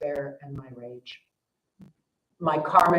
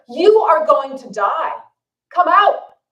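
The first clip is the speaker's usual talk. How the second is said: much higher and louder, slow desperate scream; parents screaming; 8 semitones higher, 9 dB louder than usual. Retold or imitated. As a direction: scream it to save your kids. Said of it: "this time they're really screaming".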